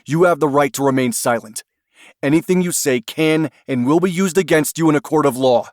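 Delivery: loud, fast Miranda reading; reading rights. Acted. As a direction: rattle off the rights. Agent reads the rights.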